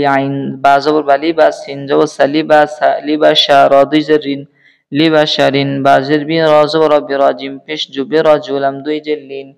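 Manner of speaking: low, even drill chant; spelling recitation. Shown as a demonstration. Teacher spelling Arabic words aloud for learners, low chanted drill. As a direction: intone each letter and syllable in a low, level chant.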